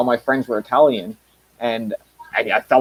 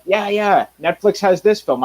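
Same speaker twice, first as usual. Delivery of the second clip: lightly mocked chatter, pitched up; higher-pitched imitation of eager viewers; imitating viewers; 6 semitones higher than usual. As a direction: quote the viewers in a raised voice. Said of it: "you guys are like".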